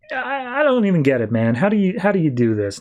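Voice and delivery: high, stammered disbelief; acted bafflement. Bleez asks Guy how he does it, high baffled exasperation. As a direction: question it in mock exasperation, voice jumping up.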